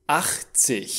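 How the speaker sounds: "Achtzig" ending in a soft ich-sound. Shown as a demonstration. Teacher gives another IG example, "Achtzig" ending in soft h. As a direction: say "Achtzig" as "acht-sich", no hard g. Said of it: "G-ul se pronunță H".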